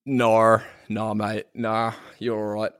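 casual Aussie "nah, mate"; lightly put-on Australian accent. Shown as a demonstration. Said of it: "As they say in Australia".

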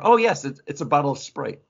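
playful fake answer, springing it as a gag; mock joke reveal. Co-host hijacking the bottle reveal as a joke, playful mock answer. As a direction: jump up high on "Oh, yes", then deadpan the punchline. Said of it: "I'm, I'm gonna say".

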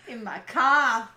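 slow Boston dropped r; Boston accent. Acted. Recalling the Boston lesson, slow mock accent. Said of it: "forgotten how to say car".

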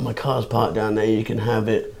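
soft, flat giveaway; subdued offer. Retold or imitated. Suicidal man offering his car, said softly and flat. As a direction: hand over the car quietly. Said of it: "he was like".

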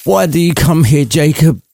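put-on high, pleading old miser; begging Scrooge. Scrooge on his knees begging Marley, high pleading voice. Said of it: "begged for mercy while asking".

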